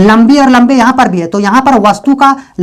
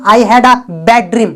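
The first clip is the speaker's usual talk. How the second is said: very slow, word by word; slow, clear dictation; slow model sentence; much slower than usual. Shown as a demonstration. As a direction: spell it out slowly for learners. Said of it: "या तो".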